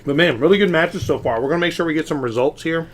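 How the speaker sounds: talking through a mouthful of pizza; mouth full. Real, not acted. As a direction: speak around a bite of food. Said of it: "talking with my mouth while that pizza's just hitting the spot".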